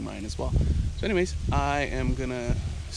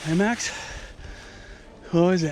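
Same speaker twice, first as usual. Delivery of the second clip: raised, higher call to a bird overhead; calling a hawk named Max across the field, raised and high; 4 semitones higher than usual. Real, not acted. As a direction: call him over, bright and carrying.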